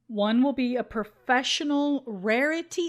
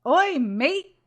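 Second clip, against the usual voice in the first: mock Australian accent; 3 semitones higher, 4 dB louder than usual. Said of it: "try to do an Australian accent".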